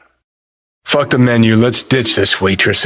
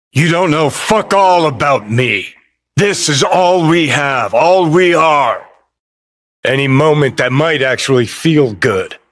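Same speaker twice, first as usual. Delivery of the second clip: raised, impassioned pitch; heated retort; 4 semitones higher than usual. Acted. Arguing over all that they have, heated. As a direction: argue back hard, drawing out the end. Acted quarrel.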